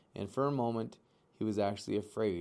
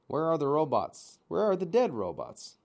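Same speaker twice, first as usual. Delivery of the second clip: put-on eager young gosling; 6 semitones higher, 6 dB louder than usual. A narrator's reading. Eager gosling asks robot mother.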